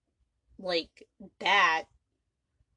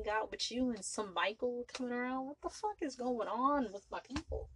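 outraged Victor; 6 semitones higher than usual. Retold or imitated. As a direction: scold them like a furious old boss. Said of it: "Victor looked at him like".

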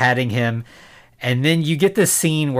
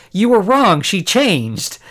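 higher, louder mock accusation; mock accusing outburst; 6 semitones higher, 3 dB louder, slower than usual. Podcaster acting out a character confronting West, mock indignant. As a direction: throw it out like an indignant objection.

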